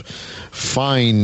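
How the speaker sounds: "fine" set apart with weight; stress on fine. Real, not acted. Host promoting the meat shop, stress on "fine". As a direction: lean on the word "fine" and let it stand. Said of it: "want to emphasize the word fine".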